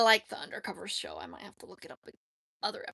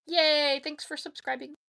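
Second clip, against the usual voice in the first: cheering; 6 semitones higher, 4 dB louder than usual. Real, not acted. Cheering a new subscriber.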